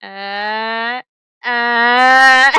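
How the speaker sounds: loud startled stammer; stunned. Acted. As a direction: sputter in disbelief. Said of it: "is like".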